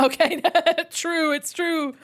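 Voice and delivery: loud, high laughter through the words; cracking up at the joke, laughing. Real, not acted.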